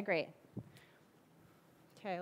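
usual speaking voice

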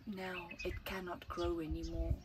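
put-on slow, lilting read-aloud for children; gentle storyteller reading to kids; story narration. A narrator's reading. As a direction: tell it like a bedtime picture book. Reads picture book aloud.

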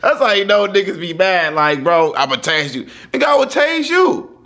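real amused retelling; laughing loudly. Real, not acted. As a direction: talk through the giggles. Host cracking up, retelling.

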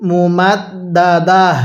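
slow, drawn-out recitation; recitation demo. Shown as a demonstration. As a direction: recite it for students to repeat. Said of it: "এরপরে পড়ুন".

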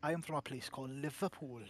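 put-on Liverpool accent. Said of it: "my natural speaking".

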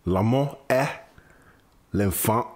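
slow intro, French words set apart by pauses; solemn recitation. Acted. Retrying the French quote for listeners, solemn recitation. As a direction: deliver the quote with mock ceremony.

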